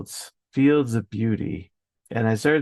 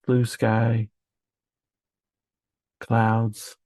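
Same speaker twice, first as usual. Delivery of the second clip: calm, unhurried talk with long pauses; gently paced visualization voice; meditation guide. Real, not acted. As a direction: let each image land, then leave space. Pre-recorded calm meditation segment with long pauses.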